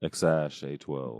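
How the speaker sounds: "X ash A twelve", spaced out slowly; pronunciation demo. Shown as a demonstration. Co-host repeating the name's pronunciation, slow "X ash A twelve". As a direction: sound out "X ash A twelve" with "ash" as one word. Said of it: "it's pronounced".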